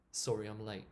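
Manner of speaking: late said as lei, no final t; t dropped. Shown as a demonstration. Teacher showing her natural way of saying it. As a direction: say Sorry I'm late with the t of late swallowed. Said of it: "more natural to say".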